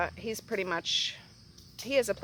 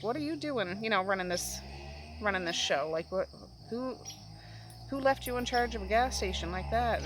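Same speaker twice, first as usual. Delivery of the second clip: sweet talk; 4 dB quieter than usual. Retold or imitated. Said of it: "he sweet talks her".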